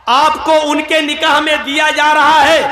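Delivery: loud formal nikah proclamation; loud clear announcement. Shown as a demonstration. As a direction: call out آپ کو ان کے نکاح میں دیا جا رہا ہے so the bride hears. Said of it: "اتنی زور سے بولیے کہ لڑکی سن لے".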